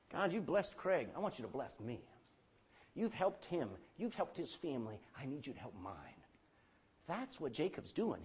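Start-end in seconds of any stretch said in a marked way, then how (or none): 0.1-6.2 growing softer and lower to a hush; pleading prayer. Acted. Preacher voicing a believer asking God for help, softening. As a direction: plead quietly, drawing inward.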